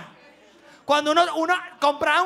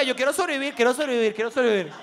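put-on desperate kid. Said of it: "uno decía".

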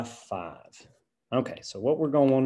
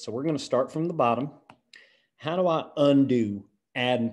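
put-on country accent. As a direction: teach the lesson in a hammy country accent. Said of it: "I'm gonna do my best country accent".

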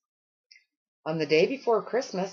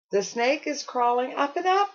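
high, frightened squeal; 8 semitones higher than usual. A narrator's reading. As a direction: squeal it in alarm. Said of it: "squealed the snow girl again".

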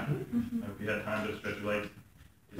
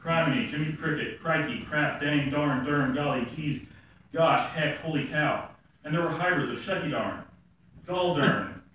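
lively spoken-word recital of a list; poem reading. Acted. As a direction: read it as a comic poem, relishing each item.

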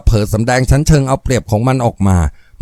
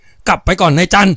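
high, slow sharp snap; snapping; 7 semitones higher, slower than usual. Acted. Young woman snapping at the foreman to go back. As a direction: snap the order at him. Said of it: "เด็กสาวตวาด".

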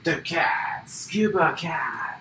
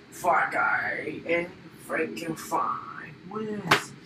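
soft whispered announcement; whispering; 5 dB quieter than usual. Pretend. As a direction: breathe it as a secret. Winner line whispered.

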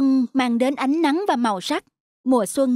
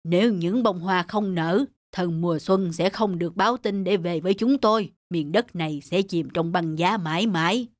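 hopeless; 5 semitones lower than usual. Acted. A flower tells the birds spring won't come, despairing. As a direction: sink into hopelessness.

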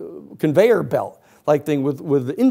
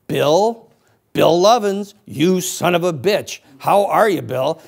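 hearty greeting; 3 semitones higher, 4 dB louder, slower than usual. Acted. Investigator hails his target in the bar, hearty greeting. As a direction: greet him like a long-lost pal. Feigned reunion, hailing him at bar.

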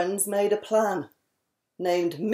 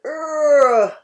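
loud disgusted urgh; groan of disgust; 3 semitones higher, 6 dB louder than usual. Acted. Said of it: "The frog's groan".

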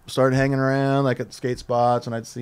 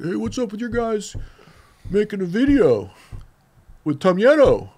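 higher, demanding exec voice; indignant caller; 9 semitones higher, 4 dB louder than usual. Retold or imitated. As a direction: complain down the phone, indignant. Exec calling to complain.

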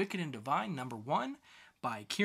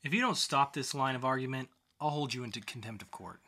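a hint of a stern judge, measured; 5 semitones higher, 5 dB louder than usual. Judge warning the defendant, mild sternness.

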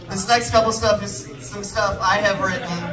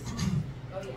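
throat clearing; 12 dB quieter than usual. Shown as a demonstration. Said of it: "It takes a second to get the voice".

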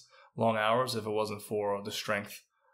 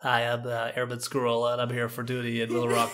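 nerdy airman voice. Retold or imitated. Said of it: "make that voice".

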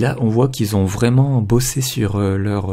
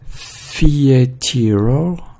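English accent; 3 semitones higher, much slower than usual. Real, not acted. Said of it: "désolé pour mon accent anglais".

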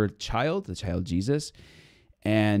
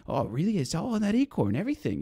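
mock surprise; 10 semitones higher than usual.

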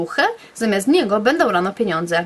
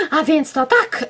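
exclaiming; 5 semitones higher, slower than usual. Acted. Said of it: "wykrzyknęłam".

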